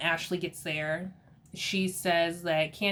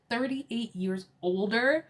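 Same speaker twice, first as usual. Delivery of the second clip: slow, higher incredulous question; mock shock; 4 semitones higher, slower than usual. Guests learn of Mia's older husband, mock shock. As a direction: repeat it slowly, rising at the end in disbelief. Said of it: "You should have seen Robin's face".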